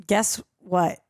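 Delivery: "Guess what?" with a gap and the emphasis misplaced; oddly stressed delivery. Real, not acted. Host setting up trivia for co-host, "Guess what?" oddly stressed. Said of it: "put the emphasis on the wrong syllable".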